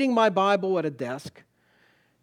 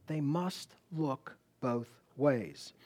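soft slow emphasis; 3 semitones lower, 7 dB quieter, much slower than usual. Acted. Preacher repeats the rule softly.

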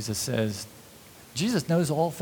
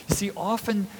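ordinary talk, nothing marked

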